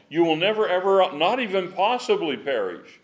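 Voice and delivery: "never, ever" hit high and loud; very strong emphasis. Shown as a demonstration. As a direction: pound out "not even possibly perish" with full force. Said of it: "makes it so strong".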